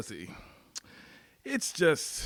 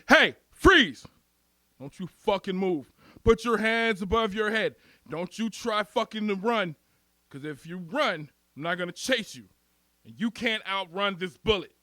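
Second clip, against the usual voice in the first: cop giving orders. Acted. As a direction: play a cop stopping a suspect. Cop ordering suspect to freeze.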